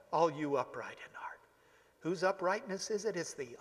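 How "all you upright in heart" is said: whispered. Acted. Hushed close of scripture reading.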